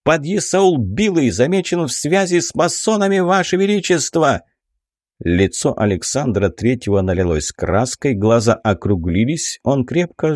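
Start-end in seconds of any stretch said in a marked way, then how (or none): 0.0-4.4 blurted high with a cracking voice; voice breaking. A narrator's reading. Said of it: "срывающимся голосом выпалил". (срывающимся голосом выпалить)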